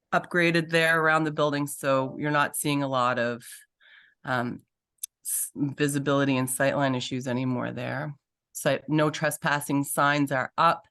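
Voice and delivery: ordinary talk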